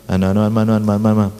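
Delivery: low, rapid newsreader babble; mock newsreader. Preacher mocking the Indonesian dubbing, like reading the news. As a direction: imitate a monotone news read. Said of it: "itu kayak baca berita".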